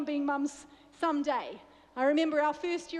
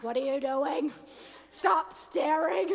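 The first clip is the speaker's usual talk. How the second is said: retold exasperated protest, louder and drawn out at the end; mock exasperation; 4 dB louder, slower than usual. Wife to husband staring while she prepares, mock exasperated. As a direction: play up being bothered, stretching the last words.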